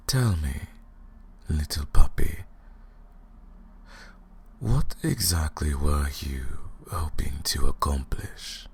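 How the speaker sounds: a cold whispered question; mocking whisper. Vampire interrogating her prisoner.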